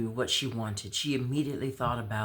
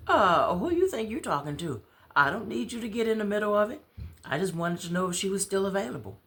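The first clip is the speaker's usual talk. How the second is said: Dob teasing; 8 semitones higher, 4 dB louder than usual. Acted. Dob teasing Ahmad about Davis.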